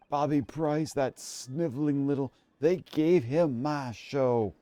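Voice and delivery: slurred-slow indignant rant; angry outburst. Acted. Ousted TV star rants about his stolen show, angry. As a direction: stretch the words in wounded outrage.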